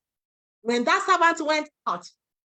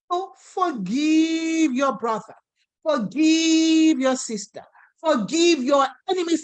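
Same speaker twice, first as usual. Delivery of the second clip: building proclamation; 2 semitones higher, 3 dB louder, slower than usual. Acted. Preacher building to climax.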